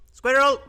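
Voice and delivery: Squirrel yelled high and very loud; distinctive "squirrel". Real, not acted. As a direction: shout out Squirrel in a high, excited burst. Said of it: "laughing at the way you say squirrel".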